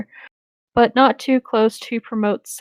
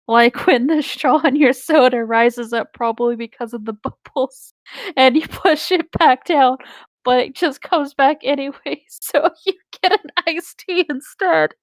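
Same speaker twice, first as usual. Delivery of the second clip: reading through laughter; 4 semitones higher, 3 dB louder than usual. Real, not acted. Reader breaking up at an absurd simile, laughing. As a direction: pitch climbing as the giggles take over.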